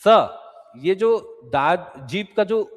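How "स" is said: isolated स, tongue toward the teeth; स as a dental "s"; dental sibilant. Shown as a demonstration. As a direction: demonstrate a dental स. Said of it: "दांत की ओर लेके जाओगे".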